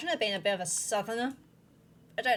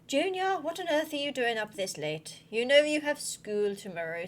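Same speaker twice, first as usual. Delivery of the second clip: lightly posh scolding mother; a touch of posh English mum; posh mama voice; 2 semitones higher than usual. Acted. Mama to Junior up late, posh mama voice. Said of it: "I've gone into very posh mama voice".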